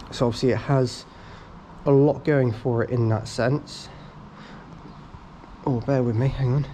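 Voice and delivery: slightly out of breath; words broken up by catching breath. Real, not acted. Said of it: "I was just catching my breath".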